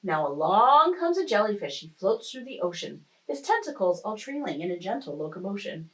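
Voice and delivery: lilting rhymed storytelling; expressive story-time reading; picture-book narration. A narrator's reading. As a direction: read the rhyme aloud to young children. Reads picture book aloud.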